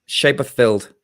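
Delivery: "Shea Bothfield" starting with a "shay" sound; Damien's pronunciation. Shown as a demonstration. Co-host answering how Damien pronounces it, demonstrating "Shea Bothfield" plainly. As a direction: say "Shea Bothfield" as shay-buth-field, falling at the end. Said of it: "how I've heard Damien pronounce it".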